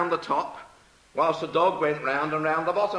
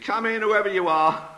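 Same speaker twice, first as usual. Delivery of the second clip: high, raised call to the door; 6 semitones higher, 4 dB louder than usual. Acted. Trapped knitter answering another knock, high call. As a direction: hold it high and carrying.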